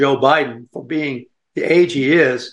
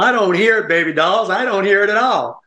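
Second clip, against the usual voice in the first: lightly raised, teasing reply to the ladies; a hint of playful denial, pitched up; retold retort; 5 semitones higher than usual. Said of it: "And I told them".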